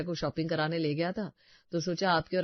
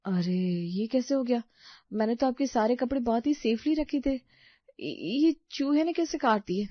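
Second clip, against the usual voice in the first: higher-pitched, startled disbelief; dismayed surprise; 6 semitones higher than usual. Acted. Bhabhi discovers the ruined clothes, dismayed surprise. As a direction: protest in bewildered surprise. Finds the clothes chewed by mice.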